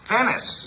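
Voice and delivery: "Venice" with a clear v; correcting pronunciation. Shown as a demonstration. Charlie corrects the Baron's pronunciation of "Venice". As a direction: say "Venice" with a crisp v sound. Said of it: "No, Venice".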